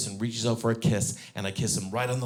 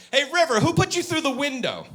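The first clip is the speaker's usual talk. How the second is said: higher playful dad question; dad quizzing; 14 semitones higher, 4 dB louder than usual. Retold or imitated. Dad testing River in the car, high teasing. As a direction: bait her with it. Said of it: "and I go".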